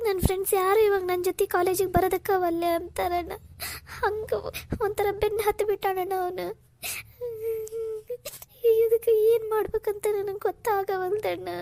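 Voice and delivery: tearful, words through sobs; telling him while breaking into tears; crying. Acted. Sister tells her brother about the stalker, tearfully. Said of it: "Kaveri, ಅಳ್ಬೇಡಮ್ಮ".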